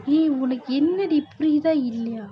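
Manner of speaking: angry scolding shout. Acted. Mother shouts at daughter.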